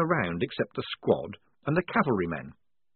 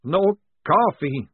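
slow, higher anguished moan; 9 semitones higher, 6 dB louder, much slower than usual. A narrator's reading. Maledict grieving for his coffee, slow moan. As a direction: drag it out in misery. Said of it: "moaned Maledict".

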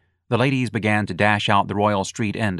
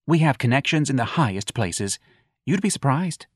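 put-on campy young man; 5 semitones higher than usual. Young man mocking the earring, high and campy.

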